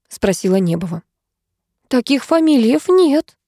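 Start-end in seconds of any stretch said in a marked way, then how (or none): 1.9-3.4 high, slow, blinking puzzlement; a simple waitress, lightly voiced; naive waitress. A narrator's reading. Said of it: "заморгала официантка". (наивная официантка, растерянно)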